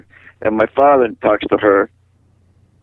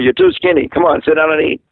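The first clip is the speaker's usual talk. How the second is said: mock motherly scolding, pitched up; blunt mother; 5 semitones higher than usual. Son mimicking his mother ordering him to eat, blunt scolding. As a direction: imitate a nagging mother, insistent and higher. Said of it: "And she's just that way".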